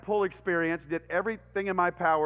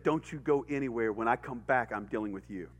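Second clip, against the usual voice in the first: stern dad threat; 9 semitones lower, 5 dB quieter than usual. Retold or imitated. Angry dad threatens the boy.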